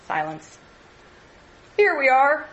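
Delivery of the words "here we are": called out loud and high; calling out. A narrator's reading. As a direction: shout it across to the others. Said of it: "called Freddie".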